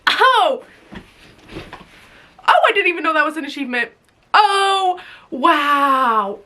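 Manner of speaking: playful fake shock at the news; mock surprise. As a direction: act caught off guard. Reacting to surprising achievement.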